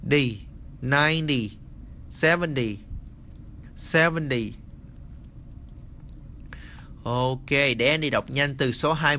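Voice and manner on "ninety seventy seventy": "ninety, seventy" with the T softened to a D, najndi, sevendi; teacher models the T sounding like a D. Shown as a demonstration. Teacher showing students the T read as D, careful pronunciation demo. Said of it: "cái chữ T ở phía sau nhưng mà mình đọc D".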